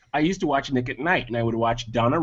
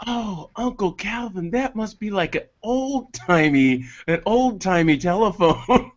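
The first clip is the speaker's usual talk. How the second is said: put-on young niece voice; 5 semitones higher, slower than usual. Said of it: "she goes".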